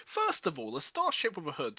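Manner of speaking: loud, high, amused disbelief; incredulous outburst. Real, not acted. Player mocking the narrator's starship hood, loud disbelief. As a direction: scoff loudly at the idea.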